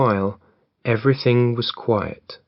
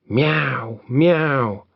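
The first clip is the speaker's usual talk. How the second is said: a lightly voiced cat's meow; cat mewing; 3 semitones higher than usual. The cat calls out to scare the robbers, light mewing. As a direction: mew it like a cat, only lightly. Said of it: "And the cat mewed".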